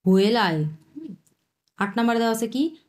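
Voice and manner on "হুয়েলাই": হুয়েলাই said as a careful Chinese model word, rising then neutral; teacher models হুয়েলাই syllable by syllable; Chinese tones. Shown as a demonstration. Bengali teacher to students: model the Chinese word clearly. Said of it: "হুয়েটা হচ্ছে দুই number tone".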